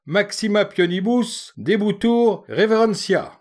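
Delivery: sermon grave et solennel, plus aigu; oncle pompeux. Acted. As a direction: joue l'oncle solennel qui cite du faux latin. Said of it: "Sapec redouble de gravité". (oncle sentencieux, voix plus haute)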